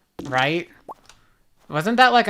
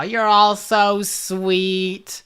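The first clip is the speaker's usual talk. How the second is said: mock touched; much slower than usual. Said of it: "I'm tearing up and getting emotional".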